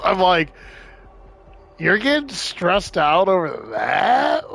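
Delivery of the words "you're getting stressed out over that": drawn-out, slow disbelief; incredulous. Retold or imitated. Speaker to friend stressed over the Cowboys, incredulous. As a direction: stretch the question out in disbelief.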